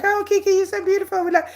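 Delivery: a hint of a fawning suitor; mock flirty admirer. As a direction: tease a smitten man's gushing. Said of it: "Y'all send me messages and be like".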